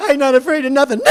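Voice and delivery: loud, high defiant yell; defiant shout. Acted. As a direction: stand up to the monster.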